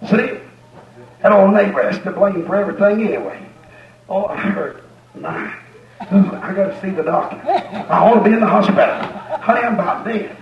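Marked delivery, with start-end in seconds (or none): 4.1-10.3 mock complaining. Mocking complaining hypochondriac.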